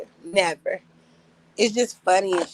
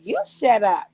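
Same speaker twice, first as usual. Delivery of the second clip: mock snap; 5 dB louder than usual. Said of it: "talking to each other like".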